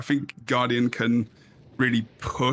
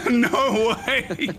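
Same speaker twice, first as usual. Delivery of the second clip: surprised; 10 semitones higher than usual. Real, not acted. Laughing disbelief at play.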